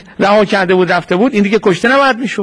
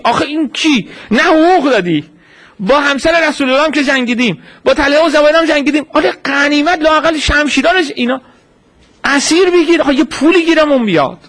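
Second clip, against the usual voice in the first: raised, pressing voice of soldiers wanting loot; mock greedy demand; 5 semitones higher than usual. Soldiers pressing the leader for spoils, raised and insistent. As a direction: push it like men grumbling for spoils.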